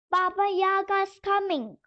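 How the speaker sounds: a frightened doll's cry. A narrator's reading. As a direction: warn in a panic, tiny voice. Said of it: "cried the little doll".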